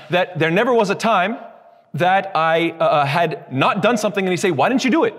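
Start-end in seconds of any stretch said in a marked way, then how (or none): 4.5-5.1 higher-pitched, imitated reproach; mock frustration. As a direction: act out a mildly exasperated challenge. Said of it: "expressing our disappointment and frustration".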